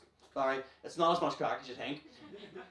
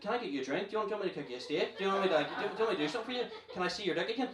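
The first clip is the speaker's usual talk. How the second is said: higher, hurried, stumbling offers; eagerly fawning; 5 semitones higher, faster than usual. Acted. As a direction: fuss over him like an over-eager servant. Suddenly fawning over the friend.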